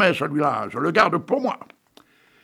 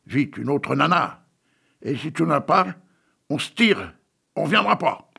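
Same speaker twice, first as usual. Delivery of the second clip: crowd shouting; 2 semitones higher than usual. Acted. Crowd crying at the fat director, light mock shout. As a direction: toss it at the boss like a jeering crowd. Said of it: "la foule alors cria".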